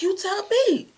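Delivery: high, loud challenge; retold indignant comeback; acted angry retort. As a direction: throw it back at them, voice shooting up. Acts out girlfriend's angry retort.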